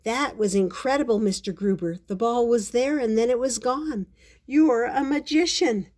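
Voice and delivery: awestruck, lifted storybook delivery; amazed. Acted. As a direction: marvel at the trick you just saw. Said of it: "Paddington was amazed".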